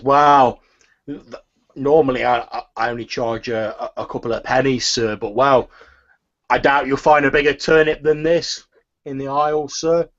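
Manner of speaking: a flustered shopkeeper stammering; a hint of a nervous old shopkeeper; turnip seller woman.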